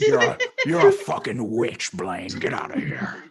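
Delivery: lightly voiced gruff Harrison Ford, fading to a whisper; Harrison Ford impression. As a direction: kick a magician out, half laughing. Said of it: "that's a pretty good H Ford".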